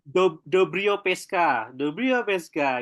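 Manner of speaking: "dobrio peska" said slowly, syllable by syllable; slow Russian phrase demo. Shown as a demonstration. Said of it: "selamat malam dalam bahasa Rusia itu apa?".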